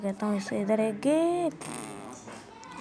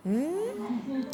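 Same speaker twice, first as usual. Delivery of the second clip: odd hum; 3 semitones higher, 6 dB quieter, much slower than usual. Acted. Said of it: "ऐसी आवाज़ें बंद निकाल".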